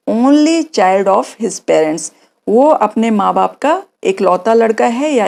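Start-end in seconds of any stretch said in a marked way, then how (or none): 0.1-2.1 slow model answer. Shown as a demonstration. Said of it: "अगर लड़का है तो".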